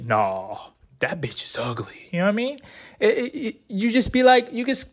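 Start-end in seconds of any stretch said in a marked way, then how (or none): 0.0-2.1 blunt rude verdict. Retold or imitated. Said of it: "go crazy and say".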